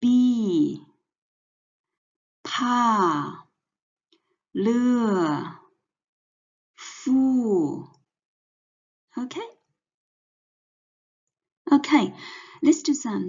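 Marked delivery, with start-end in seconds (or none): 2.4-7.9 Pa, le, fu each dropping sharply from high; falling fourth tone. Shown as a demonstration. Teacher showing the fourth tone, falling sharply. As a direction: snap each syllable down. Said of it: "the fourth tone".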